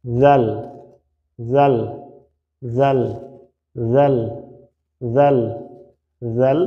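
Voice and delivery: জাল repeated with the tongue tip on the upper teeth; crisp repeated জাল; letter drill. Shown as a demonstration. Teacher drilling জাল with students, crisp and steady. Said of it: "এরপর আসি".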